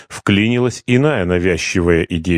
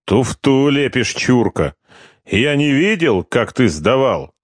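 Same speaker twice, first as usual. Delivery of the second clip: high, heated accusation; angry accusation; 5 semitones higher than usual. Acted. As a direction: call him a cheat. Corporal accuses partner of cheating.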